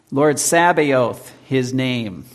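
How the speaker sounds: put-on slow, measured reading of old verse; solemn recited hymn verse; slow hymn recitation. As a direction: lift each line of the hymn deliberately. Reciting Luther hymn lyrics.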